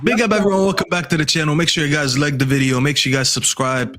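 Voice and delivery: demonstrated host patter; stream host intro. Shown as a demonstration. Showing the others how to host, stream intro patter. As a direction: run through a host's channel welcome. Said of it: "This is what I would do as a host".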